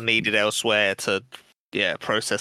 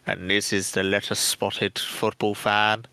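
slow, low documentary narration; David Attenborough; 4 semitones lower, slower than usual. Retold or imitated. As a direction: narrate it like a nature film. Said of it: "I reckon he sits in bars and does talks".

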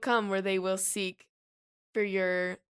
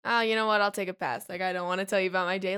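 put-on dismissive teen; faster than usual. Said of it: "your child is like".

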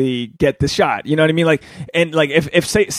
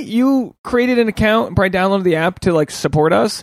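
much higher, squeaky stunned gratitude; amazed disbelief; 8 semitones higher than usual. Retold or imitated. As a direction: gush in high-pitched disbelief. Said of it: "and you go".

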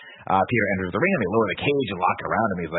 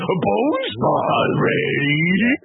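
hammed-up wrestler's roar; high, loud and hugely drawn-out catchphrase shout; Bonesaw; 13 semitones higher, 5 dB louder, much slower than usual. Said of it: "but he goes".

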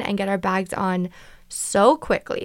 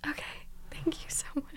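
a much softer, higher breathy thank-you; whispered grateful thanks; relieved whisper; 6 semitones higher, 16 dB quieter than usual. Retold or imitated. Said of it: "relief after the gate news".

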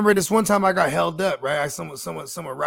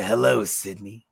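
deep killer voice; 8 semitones lower, slower than usual. Retold or imitated. Quoting killer's greeting.

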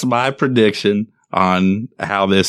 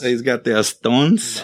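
put-on slower Latin-accented "Estones"; 3 dB quieter, slower than usual. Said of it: "my Latin accent came out".

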